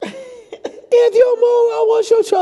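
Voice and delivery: very slow, high shouted threat; drawn-out cop threat. Retold or imitated. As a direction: stretch out the officer's warning.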